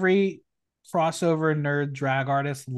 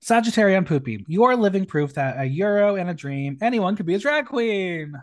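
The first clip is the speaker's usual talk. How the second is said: lively, projected read-out of a roast; performed drag-roast reading; 3 semitones higher than usual. Acted. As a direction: announce the name, then deliver the jibe. Reads out contestants' roast jokes.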